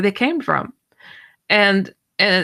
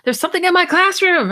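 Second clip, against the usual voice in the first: retold panic; 11 semitones higher than usual. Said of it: "she calls me in a panic".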